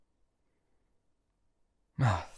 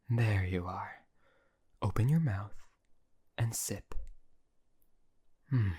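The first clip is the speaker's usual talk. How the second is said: whisper. Acted.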